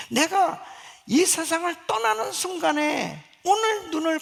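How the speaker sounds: high, loud sermon delivery; forceful preaching. Real, not acted. Preaches with rising urgency.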